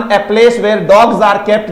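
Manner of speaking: very slow, word by word; slow definition. Shown as a demonstration. Teacher repeating a definition slowly.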